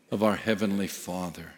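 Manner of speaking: normal talking voice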